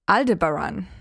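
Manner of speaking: Aldebaran as AL-duh-buh-ran; own pronunciation. Shown as a demonstration. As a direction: stress the first syllable of Aldebaran. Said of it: "I say".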